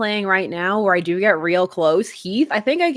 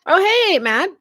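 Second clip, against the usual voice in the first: excited; 11 semitones higher than usual. Real, not acted. Greeting a chat member.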